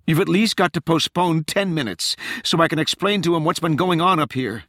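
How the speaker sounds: high, agitated explanation; urgent plea. A narrator's reading. Rachel pleads for a delay.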